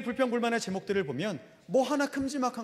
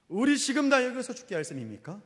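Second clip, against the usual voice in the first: higher-pitched, pressing acted protest; indignant protest; 5 semitones higher than usual. Israelites confronting their leader about dying here, stronger indignant protest. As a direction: push the question up as an accusation. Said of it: "이렇게 항변하지 않습니까".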